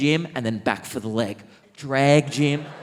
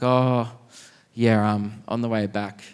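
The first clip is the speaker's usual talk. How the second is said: low, halting, understated retelling; a bit emotional; 4 semitones lower, slower than usual. Retold or imitated. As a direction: recount it heavily, with pauses. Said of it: "started to get a bit emotional".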